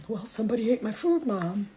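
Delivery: voicing the cat. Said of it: "He's like".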